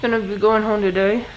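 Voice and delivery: talking through wired-shut teeth; talking with mouth closed. Real, not acted. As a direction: speak with jaw clenched shut. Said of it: "this time my mouth is wired shut".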